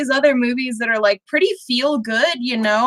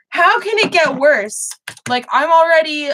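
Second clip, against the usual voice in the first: retold disbelief; 6 semitones higher than usual. Replying to friend's warning about the film, mock dismay. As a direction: act out dismayed protest, pitched up.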